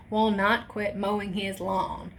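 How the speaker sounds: slow, separated words; deliberate restart. Real, not acted. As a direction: say it carefully after a tongue slip. Restarts after tripping over words.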